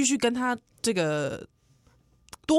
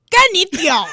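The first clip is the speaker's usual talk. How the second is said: mock curse; 9 semitones higher, 9 dB louder than usual. Imagined rude Taiwanese retort.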